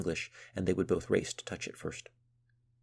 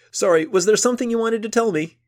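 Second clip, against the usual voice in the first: laughing; 14 dB louder than usual. A narrator's reading. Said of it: "Boya, still laughing".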